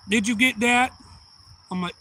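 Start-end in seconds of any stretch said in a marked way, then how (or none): 0.1-0.9 loud, high granny question; granny teacher. Retold or imitated. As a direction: imitate a granny checking on her pupil, loudly. Granny checks on her pupil.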